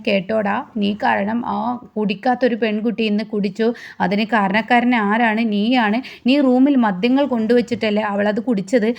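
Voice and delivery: plain reading voice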